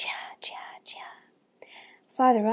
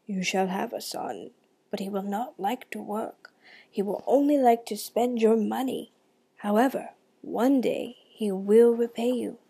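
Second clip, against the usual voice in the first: flowing river voice. Acted. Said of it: "answered in a gurgly voice".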